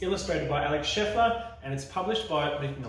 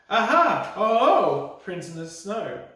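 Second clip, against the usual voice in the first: gleeful mouse; 7 semitones higher, 10 dB louder than usual. Acted. Mouse mocks child.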